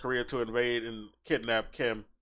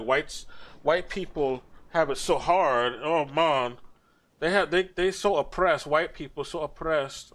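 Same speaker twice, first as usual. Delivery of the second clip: whiny, drawn-out sarcastic lament, pitched up in places; mock pity; 3 semitones higher than usual. Streamer mimicking a defector pitying white people, mock pity. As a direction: put on an overdone poor-me complaint. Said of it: "She talks about, like".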